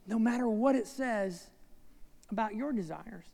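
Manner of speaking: gently explain, dropping to near hush; tender earnest plea. Retold or imitated. Jesus speaking to his mother.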